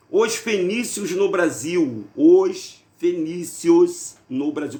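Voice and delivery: slow, drawn-out announcement of the topic; dramatic slow title. Real, not acted. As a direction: spell out the headline slowly, like a teaser. Anuncia o tema do vídeo. (anúncio lento e solene do título)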